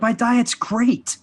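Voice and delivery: high, drawn-out acted boast; mock self-assurance. People insisting on their diet, mock self-assured. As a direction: stretch it out high, as if in denial.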